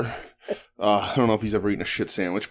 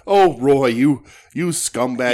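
drawn-out mock disgust; mock scolding; 5 dB louder, slower than usual. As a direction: scold him like a scumbag. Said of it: "normally I'm like".

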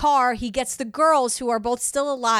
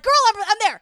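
put-on high, louder girl-talk exclamation; pitched-up, emphatic solidarity; sassy agreement; 9 semitones higher, 5 dB louder, faster than usual. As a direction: jump in eagerly like a friend on call. Acted casual girlfriend reply.

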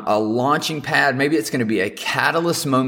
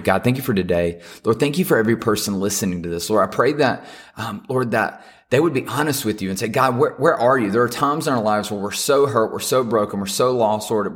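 earnest prayer. Acted. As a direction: pray over the listeners sincerely. Pastor leads closing prayer.

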